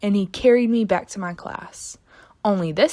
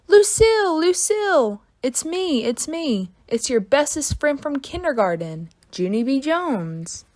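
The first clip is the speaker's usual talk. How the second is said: excited squeal; 6 semitones higher than usual. Acted. Thrilled reunion with best friend.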